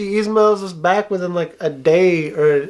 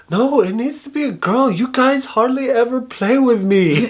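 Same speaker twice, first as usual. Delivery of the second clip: imitating a little girl; 7 semitones higher than usual. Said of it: "she's like".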